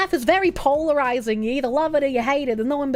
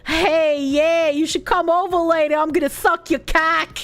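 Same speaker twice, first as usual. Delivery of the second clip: mock sexy Boston accent. Streamer doing sexy ASMR in a Boston accent on request. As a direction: lightly play a sexy Boston voice. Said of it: "sexy A S M R with my Boston accent".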